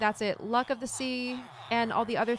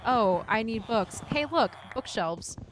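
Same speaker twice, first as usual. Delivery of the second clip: imitating a visitor's thought; slower than usual. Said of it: "someone having the exact same moment".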